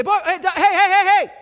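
frantic high yelling, laughing through it; piercing parent's alarm cry; alarmed shout at son. Pretend. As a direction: bark a panicked warning at a child about to get hurt. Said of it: "I'd say".

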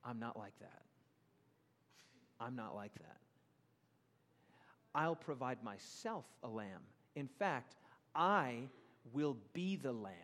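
low, soft and slow, reassuring; softly voiced loving God; tender God. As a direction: gently comfort a frightened father. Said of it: "And God says".

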